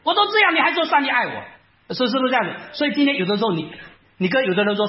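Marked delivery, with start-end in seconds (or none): 0.0-1.4 much higher, angry retort; indignant retort. Retold or imitated. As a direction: snap back at the comforter indignantly. 他要跟你打架. (被掳的人气愤地反驳)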